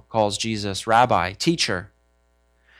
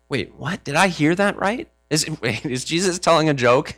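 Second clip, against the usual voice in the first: mock disbelief with a laugh; stunned, halting questions; incredulous; 4 semitones higher than usual. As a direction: act out baffled double-take. Disciples reacting to shocking news.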